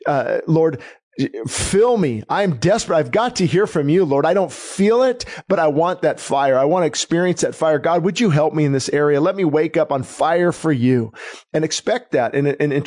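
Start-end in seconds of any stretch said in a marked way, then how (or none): 0.0-11.1 earnest, lightly raised pleading prayer; sample prayer. Shown as a demonstration. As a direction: pray it from the heart, desperate. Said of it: "I pray it often".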